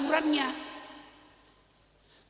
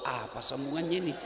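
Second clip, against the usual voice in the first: panicking imam; 9 semitones lower, 8 dB quieter than usual. Retold or imitated. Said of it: "Pak Imam panik".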